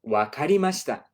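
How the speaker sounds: playing the sensei answering the absent student; sensei's reply. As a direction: lightly voice the sensei agreeing. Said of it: "And the sensei says".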